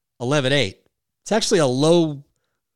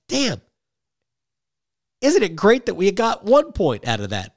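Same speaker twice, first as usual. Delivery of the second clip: mock realization; 6 semitones higher than usual. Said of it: "then you realize".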